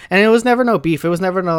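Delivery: loud, high stress on never; emphatic. Real, not acted. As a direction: hammer the word never. Insisting there was no conflict.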